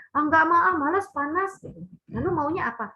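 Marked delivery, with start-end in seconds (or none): 0.1-1.6 put-on high, loud whiny kid saying no; whiny child refusing. Parent acting out a child whining back at mum. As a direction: sulk like a lazy child who won't go out.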